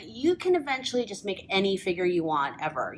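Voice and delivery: caffeinated rush of words; over-caffeinated rapid talk; too much caffeine. Real, not acted. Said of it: "I'm so caffeinated right now".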